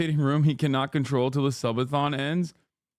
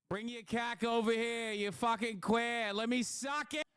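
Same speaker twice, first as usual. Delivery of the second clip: played clip; 8 semitones higher, 10 dB quieter than usual.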